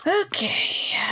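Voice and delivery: a sudden breathy whisper before business; whispered okay. Acted. Interviewer whispering to the candidate to start business. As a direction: drop to a whisper, then move on.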